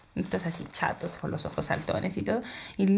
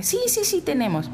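vendedora solícita; 9 semitones higher, 3 dB louder than usual. Retold or imitated. Vendedora responde solícita a clienta.

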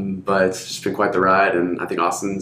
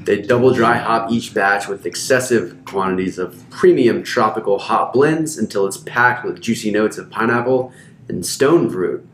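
ad read; 2 semitones higher than usual. Acted. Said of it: "Who wrote that?".

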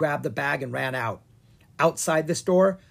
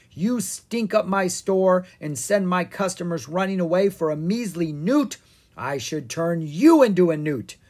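angry rant; 5 semitones higher, 4 dB louder than usual. Acted. Wizard ranting at the twins.

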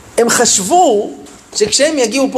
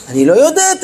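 higher, firmer retold protest; insistent admission; 5 semitones higher than usual. Teacher answers the pupil who keeps pressing, insistent admission. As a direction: pitch lifts as the teacher insists.

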